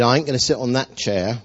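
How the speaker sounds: put-on slipping into an Essex accent. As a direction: imitate her in a mistaken Essex accent. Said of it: "that was my Essex came out".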